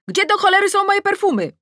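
high, loud exasperated yell; angry shout. A narrator's reading. Woman hunting for her missing perfume, shouting. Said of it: "więc krzyczę".

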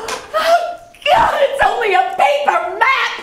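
exasperated shout. Acted. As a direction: yell it out in frustration. Angry outburst in the scene.

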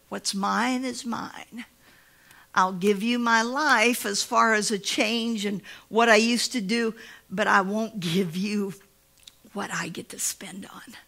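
slow stubborn words sinking to a whisper; slow grudging fade into a whisper; holding back. Retold or imitated. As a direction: whisper the last part like a secret. Voicing a person holding back.

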